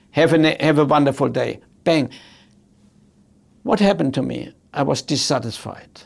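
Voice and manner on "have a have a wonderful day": friendly teller. Retold or imitated. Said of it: "She could have said".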